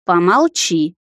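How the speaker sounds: mild growled hush; growled command. Acted. Heroine growls at the talking stone to shut up. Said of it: "рыкнула я".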